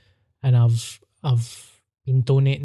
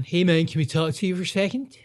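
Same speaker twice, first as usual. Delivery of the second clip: higher, pleading salesman voice; hammed-up pushy fundraiser; mock charity mugger; 5 semitones higher than usual. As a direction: wheedle like a street fundraiser. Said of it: "I hate the charity muggers".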